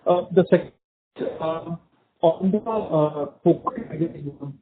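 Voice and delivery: muffled, like a hand over the mouth. Real, not acted. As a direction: speak through a muffled line. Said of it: "you're sounding muffled again".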